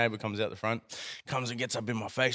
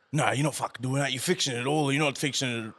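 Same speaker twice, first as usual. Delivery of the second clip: raised-pitch mock protest; retold angry objection; 4 semitones higher, 3 dB louder than usual. Neighbour objecting to the fence repair, mock indignant. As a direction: imitate an irate neighbour objecting.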